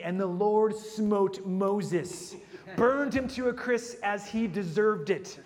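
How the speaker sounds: slow, booming mock scripture voice; mock dramatic verse. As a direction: ham up a wrathful Bible verse. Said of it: "you would think".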